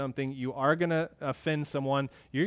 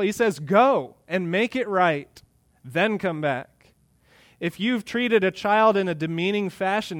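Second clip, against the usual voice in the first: raised, emphatic pulpit voice; forceful preaching; 5 semitones higher, 6 dB louder than usual. Real, not acted. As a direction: drive home the admonition to the congregation.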